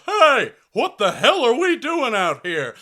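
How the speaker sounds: mock football coach yelling at players; angry coach. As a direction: yell like a mad high school coach. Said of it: "he goes".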